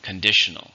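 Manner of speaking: Conditional with a firm stress on DI; second-syllable stress. Shown as a demonstration. Teacher models Conditional for learners, stress on DI. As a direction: say Conditional as con-DI-tion-al. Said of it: "stress in the second".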